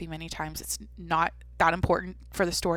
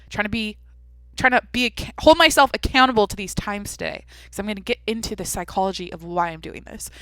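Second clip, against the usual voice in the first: frustrated cursing; 2 semitones higher, 7 dB louder than usual. Retold or imitated. Naked in the bathroom when the fuse blows, loud frustrated ranting. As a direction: vent it like the power just died mid-task.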